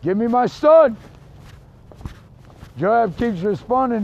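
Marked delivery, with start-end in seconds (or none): 0.0-1.0 a louder call on the name, dropping on the rest; hollering out. Acted. Old father hollering after Joab to return his son, loud call. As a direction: holler it after him down the road. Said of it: "Keeps hollering out".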